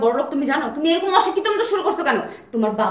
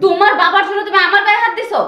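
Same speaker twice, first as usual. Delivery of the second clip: loud, higher accusing cry; angry outcry; 4 semitones higher, 5 dB louder than usual. Acted. Wife yelling at her husband for hitting her, angry outcry. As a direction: shout out the accusation. Wife shouts after being hit.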